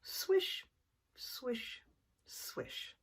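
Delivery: hushed, breathy swish, fading away; slow swishes. Acted. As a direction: whisper the slow circling swish. Slow circles.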